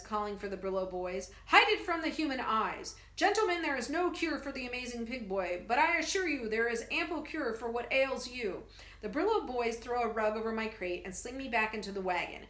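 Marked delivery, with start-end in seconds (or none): 1.5-8.6 booming showman. Acted. Professor selling elixir to soldiers, booming golden voice. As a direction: boom it over the crowd. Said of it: "golden voice booms into the night".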